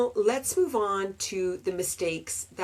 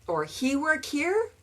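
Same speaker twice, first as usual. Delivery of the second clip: mock learner question, higher; learner's mistake; 6 semitones higher than usual. Shown as a demonstration. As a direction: ask it like a student forgetting does. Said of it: "And that's normal".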